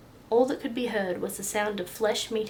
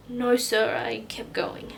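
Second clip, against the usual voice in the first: sniffling admission; 2 semitones higher, slower than usual. Acted. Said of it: "sniffled Mickey".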